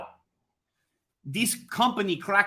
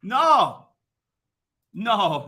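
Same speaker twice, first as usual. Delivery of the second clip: mock wail; 13 semitones higher, 10 dB louder, much slower than usual. Mock despair at the commandment.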